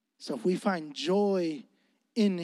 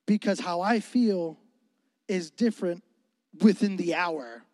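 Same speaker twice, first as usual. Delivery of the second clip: sincere prayer; 2 semitones lower than usual. Retold or imitated. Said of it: "I said".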